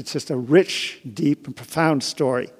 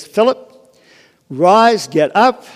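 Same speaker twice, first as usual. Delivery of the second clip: mild angelic summons, higher pitched; commanding angel; 4 semitones higher, 5 dB louder, much slower than usual. Retold or imitated. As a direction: call him to his feet, lightly voiced as an angel. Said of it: "an angel appeared to him one day and says".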